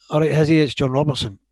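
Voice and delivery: high, loud and hearty; hearty greeting. Retold or imitated. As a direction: boom out a cheery hello. Manager voiced on phone.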